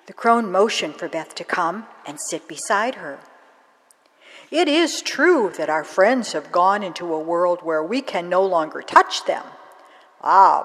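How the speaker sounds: put-on mystical old crone explaining secrets; a hint of a wise crone. Crone teaching the grieving girl about Samhain, lightly voiced wise old woman.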